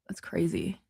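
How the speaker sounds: whisper. Real, not acted. Shocked at festival during covid.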